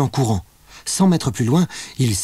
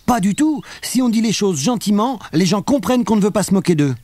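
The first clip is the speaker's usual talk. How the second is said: Léa protesting; 9 semitones higher than usual. A narrator's reading. Léa argues back with Vincent.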